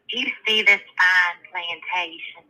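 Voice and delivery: lightly acted bragging belle; Southern belle. Southern belle showing off to another belle, lightly acted boast. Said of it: "the one Southern Belle, she says".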